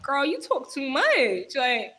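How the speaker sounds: lightly acted exasperated listeners; mock audience complaint. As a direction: put on a playful plea from worn-out listeners. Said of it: "y'all are like".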